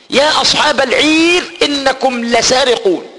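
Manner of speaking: a touch of a public announcement; herald calling out. Acted. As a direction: call after the caravan like a crier. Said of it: "مناديا ينادي فيهم".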